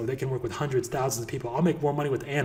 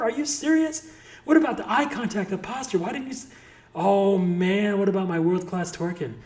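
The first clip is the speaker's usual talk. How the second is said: incredulous disbelief; 5 semitones higher than usual. Real, not acted. Finds nothing was recorded.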